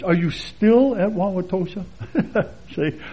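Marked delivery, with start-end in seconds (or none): 0.0-1.9 questioning, with a stressed STILL; imitated pointed asking. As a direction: lean on STILL in surprise. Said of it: "ask me in this tone of voice".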